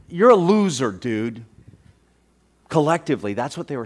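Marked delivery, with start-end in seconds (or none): 0.1-1.4 mock jeer at a loser. Crowd jeering Jesus as they pass by, mocking. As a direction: taunt him, dropping off at the end. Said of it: "They were mocking him".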